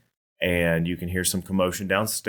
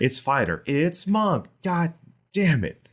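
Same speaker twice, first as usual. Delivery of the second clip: mock frustration; 10 semitones higher, slower than usual. Acts a frustrated player guessing.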